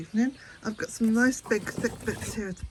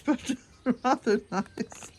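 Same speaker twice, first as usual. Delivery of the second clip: laughing; 3 semitones higher, slower than usual. Real, not acted. Laughing about garish flowers.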